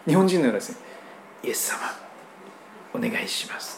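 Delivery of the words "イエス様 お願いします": soft, almost whispered request; weak timid prayer. Retold or imitated. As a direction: mumble it meekly, barely audible. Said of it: "そんな小さなこの弱っちい祈り". (弱々しく小さな声の祈り)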